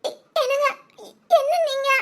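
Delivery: the wife laughs and cries as the fake fight overwhelms her; laughing and crying. Real, not acted. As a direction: break between laughter and tears. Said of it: "என்னடா சிரிக்கிற".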